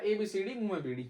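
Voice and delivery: can't finish it without laughing; laughing quote. Retold or imitated. Brother tells mom the rhyme, laughing as he repeats it. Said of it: "बताइए क्या बोला".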